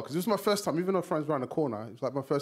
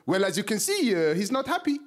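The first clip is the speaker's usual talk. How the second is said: lightly voiced French bystander, rising higher; French accent; 4 semitones higher than usual. French guy translating a rap battle, French accent. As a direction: explain it politely in a French accent. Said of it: "this French guy looked at me".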